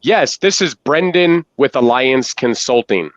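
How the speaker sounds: slow, deliberate cold-call opener with long pauses and falling endings; slow commanding pitch. Shown as a demonstration. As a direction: take your time, pause after each sentence, let every line fall. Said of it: "we will literally pitch at that pace".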